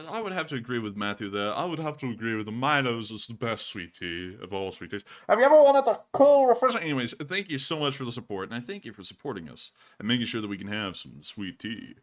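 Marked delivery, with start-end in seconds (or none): 5.3-6.8 high, loud commercial pitch; ad announcer voice. Pretend. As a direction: sell it like a TV ad. Parodies a sweet tea advert.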